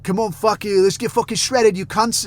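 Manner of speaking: mock Australian lifter rallying his fans; Australian gym bro impression. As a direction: pump up the crowd like an Aussie gym influencer. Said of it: "talks like an Australian".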